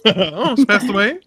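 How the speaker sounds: high, drawn-out celebrity impression; slow, high-pitched talk-show host take-off; Wendy. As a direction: stretch it out high, imitating a TV host. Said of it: "you sound like Wendy".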